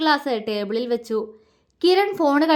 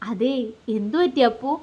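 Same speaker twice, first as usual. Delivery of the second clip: gently coaxing question; tender. A narrator's reading. Husband drawing close to his shy bride, asking tenderly. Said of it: "അവൻ ആർദ്രമായി ചോദിച്ചു".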